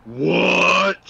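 high, loud yell of disbelief; shocked yell. Real, not acted. Co-player reacting to the game's twist, shocked yell. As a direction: cry out in real shock.

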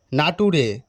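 "নাটুরে" read letter by letter, na-tu-re; wrong pronunciation. Acted. Bluffing teacher dictates "নাটুরে" for nature, mispronounced. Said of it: "উচ্চারণ ভুলভাল বলছে".

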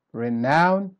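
"renown" slow, rising on "nown"; weak then strong. Shown as a demonstration. Teacher showing the opposite pattern, "renown" slowly stressed on the end. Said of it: "start weak and then you go".

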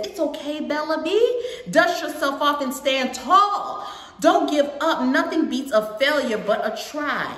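lilting motherly encouragement; encouraging mother. Acted. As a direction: lift the voice to cheer a child on. Voices mom's encouragement in the book.

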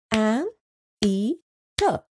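"An, e, ter" in three separate beats; syllable by syllable. Shown as a demonstration. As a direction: clap out "An, e, ter". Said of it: "Let's try out some more examples".

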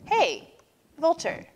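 calling out. A narrator's reading.

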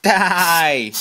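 high, loud battle yell; screaming at a spider. Real, not acted. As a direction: scream it as you swat. Swatting the insect, yelling.

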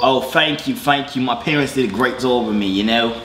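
mock English accent, pleased with himself; put-on English accent. Thanking a caller for a compliment, put-on English accent. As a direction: play a Brit in a fake English accent. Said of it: "trying to do an English accent".

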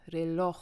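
Reloj stressed on its final syllable, -loj; stress on last syllable. Shown as a demonstration. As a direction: lean on the second syllable of Reloj. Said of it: "wird auf der letzten Wortsilbe betont". (Reloj mit Betonung auf der letzten Silbe)

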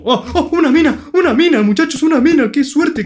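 high, loud cries of delight; excited shout. Real, not acted. Gamer finding a mine shouts to viewers in excitement. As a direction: shout it out over a lucky find.

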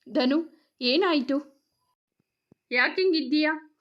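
gently worried questioning; concerned. A narrator's reading. Mother asking her troubled son what happened, mildly concerned. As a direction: ask with motherly care, in short gentle phrases. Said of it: "ಕಾಳಜಿ ತುಂಬಿತ್ತು ಧ್ವನಿಯಲ್ಲಿ".

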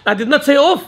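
laughing protest; mock-innocent objection through a laugh; defensive child, laughing.

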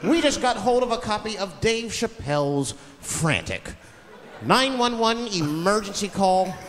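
lightly voiced news correspondent; a hint of broadcast formality; TV news reporter. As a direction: announce it like a field reporter, stretching the ending. Impersonates TV reporter introducing the tape.

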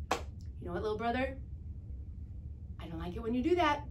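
gently. Shown as a demonstration. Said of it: "ask him to leave gently".

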